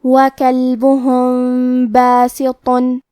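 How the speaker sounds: وَكَلْبُهُمْ بَاسِطٌ slow, the م hidden into ب with a nasal hum; ikhfa shafawi. Shown as a demonstration. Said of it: "میم ساکن کو چھپاتے ہوئے اور غنہ کے ساتھ". (میم کا اخفاء غنہ کے ساتھ)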